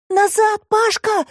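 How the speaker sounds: put-on high girl's shout of warning; Alisa shouting. A narrator's reading. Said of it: "крикнула Алиса". (высокий девичий крик)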